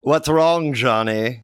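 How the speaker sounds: a touch high and loud, motherly; concerned mother. Acted. Johnny's mother asks what's wrong, high and caring. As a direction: ask like a worried mom.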